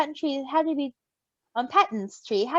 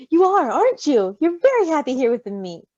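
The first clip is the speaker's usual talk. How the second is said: melting; 3 semitones higher, 5 dB louder than usual. Acted. Roman melting as he coos at the baby. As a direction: melt over the happy baby. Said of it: "Roman melted".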